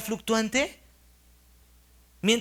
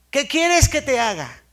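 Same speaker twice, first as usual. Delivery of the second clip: Jesus asking; 3 semitones higher, 6 dB louder than usual. Retold or imitated. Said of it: "Y Jesús, ¿la respuesta cuál fue?".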